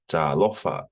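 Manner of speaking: "Talofa" with the first "a" held long; teacher's model "Talofa", long first vowel; drawn-out vowel. Shown as a demonstration. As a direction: drag the "ta" in "Talofa", then land on "lofa". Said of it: "you gotta drag it".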